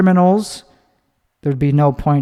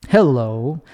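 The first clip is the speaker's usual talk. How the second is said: swooping hello. Shown as a demonstration. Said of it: "not normal way to say hello".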